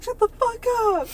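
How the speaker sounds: sudden high mock yell; yelled quote. Retelling him yelling at the cat, mock yell. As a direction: snap it out like a cranky boyfriend. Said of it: "he's always like".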